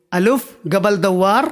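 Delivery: الف قبل دوار stretched out slowly; slow demo. Shown as a demonstration. Teacher modelling the Arabic sentence for viewers, slowly. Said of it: "تو اس کو آپ کہو گے".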